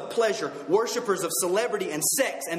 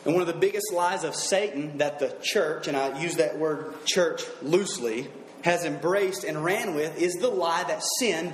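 ordinary delivery

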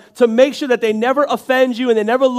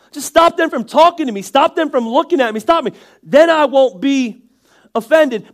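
higher, insistent pretend plea; mock exasperated prayer; 4 semitones higher, 4 dB louder than usual. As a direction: plead with God, hammed-up and fed up. Acted exasperated prayer about offenders.

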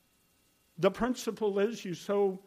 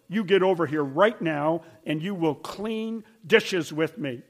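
louder, bossy grandparent command; stern order; 6 dB louder than usual. Retold or imitated. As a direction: order the child to the sink. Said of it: "me ordering my granddaughter".

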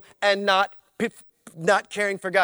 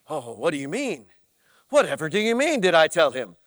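prissy churchgoer; 6 semitones lower, faster than usual. Acted. Mock prissy congregant reply.

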